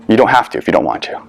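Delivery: calm retold reassurance, no push. Platoon sergeant excusing two Marines from a hard talk, calm. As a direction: say it evenly and let them off. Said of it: "When he said it in that voice".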